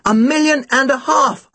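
high-pitched calling voice; called out. A narrator's reading. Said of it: "I called out".

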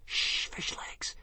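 slow urgent whisper. Acted. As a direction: hush your friend in a whisper. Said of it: "whispered Hiccup".

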